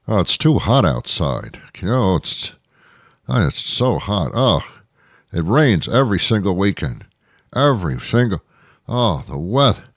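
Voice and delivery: lightly voiced weather whiner; exaggerated everyday griping; mock complaining. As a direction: moan about it like a put-upon complainer. Imitates people complaining about weather.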